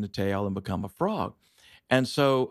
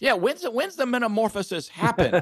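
puzzled question to the teacher; 8 semitones higher, faster than usual. Retold or imitated. Asking teacher about stuck tadpole.

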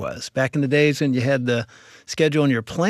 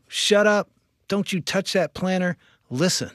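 forceful command; 6 semitones higher than usual. Shown as a demonstration. Recreating God's strong nudge to stop arguing, forceful. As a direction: bark it like a stern warning. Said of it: "It was that strong".

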